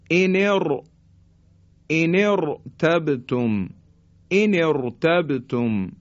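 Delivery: "ان ارتبتم" resting on a thick R; heavy R. Shown as a demonstration. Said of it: "این تفخیم". («ان ارتبتم» با رای ساکن درشت)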